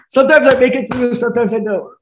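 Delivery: voice of God. Retold or imitated. Quoted voice of God answering.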